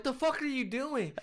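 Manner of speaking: high, drawn-out incredulous reaction; mock disbelief. Viewer reacting to bizarre method acting, high mock disbelief. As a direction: recoil in exaggerated bafflement, pitched well up.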